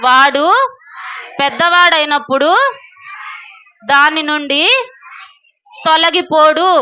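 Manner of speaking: slow phrase-by-phrase reciting with long pauses; measured teacher call-out, leaving room to repeat; verse recitation. Shown as a demonstration. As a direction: lead children through a memory verse. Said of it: "చెప్పండి నాతో".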